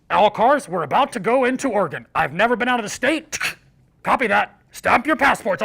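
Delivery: imitated convoy radio announcement; radio call. Lead car radioing the convoy at the state line, radio call. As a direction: call all cars over the radio. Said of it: "radio and breaker one".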